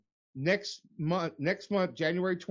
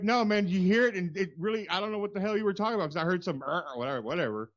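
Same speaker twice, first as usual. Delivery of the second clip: mock serious; 4 semitones higher than usual. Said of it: "'cause you were so serious".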